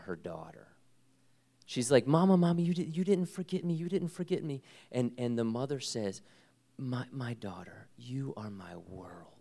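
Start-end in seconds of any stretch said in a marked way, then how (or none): 2.1-4.6 put-on high, pleading little girl calling for mommy; little girl's voice. Daughter voiced in retold reunion. 6.8-9.3 tender mother. Retold or imitated. Mother comforting daughter, retold.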